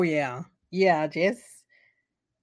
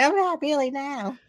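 mock shock; 8 semitones higher than usual. Sidney voiced high.

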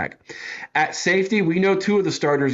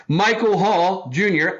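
Michael Hall Junior announced higher, with a proud flourish; mock-confident; 6 semitones higher than usual. Real, not acted. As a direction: show off the easy name. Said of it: "I can pronounce his name just fine".

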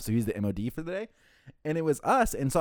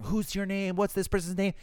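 much higher voice, not shouted; mock irate demand; 9 semitones higher than usual. Angry caller demanding names from the manager, mock irate. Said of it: "he's still just screaming".

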